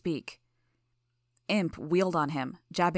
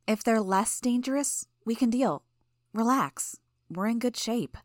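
higher, easy reassuring voice; a calm teammate talking you down; light Genesis voice; 5 semitones higher than usual. Acted.

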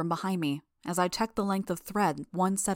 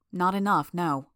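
mildly resigned admission; with a sigh; 4 dB louder than usual. A narrator's reading. Helper admitting limited medical training, with a slight sigh. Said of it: "I said with a sigh".

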